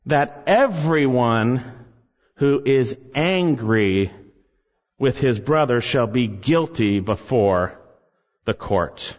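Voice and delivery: hushed, weighty scripture reading; slow solemn reading. Acted. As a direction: let each phrase land heavily with pauses. Slow grave reading of verse.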